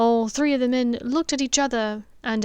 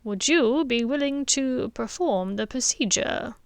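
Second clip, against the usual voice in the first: put-on old headmaster asks. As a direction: turn the question back gently. Dumbledore answers softly.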